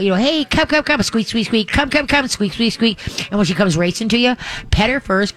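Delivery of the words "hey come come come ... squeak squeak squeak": high, eager recall call; coaxing a dog to come back, much higher. Shown as a demonstration. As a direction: call her across the house in a much higher voice. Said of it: "And then say".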